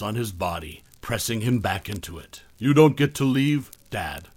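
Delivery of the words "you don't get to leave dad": seething. Acted. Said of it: "I seethed".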